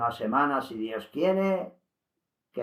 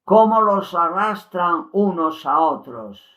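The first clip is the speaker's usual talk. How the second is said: frightened cry, raised and louder; with fright; 5 semitones higher, 6 dB louder than usual. Retold or imitated. Luz Amparo cries out in fright at the damned souls. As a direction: gasp it out in horror. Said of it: "con espanto".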